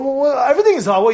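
usual speaking voice

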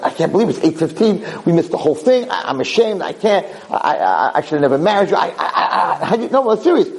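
hammed-up tirade climbing to a high-pitched shriek; retold screaming rant. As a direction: mimic a husband losing it, building to a wordless yell. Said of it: "he's screaming and he's yelling".

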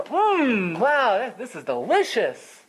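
spontaneous, delighted compliment. Shown as a demonstration. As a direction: savour the "Mm, wow" with relish. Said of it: "you're enjoying it in the moment so much".

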